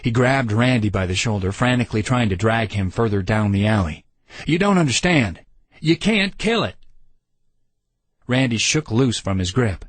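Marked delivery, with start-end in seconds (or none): 4.5-6.8 high, pleading desperately; desperate plea. A narrator's reading. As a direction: beg him to understand. Lloyd begging Randy to flee.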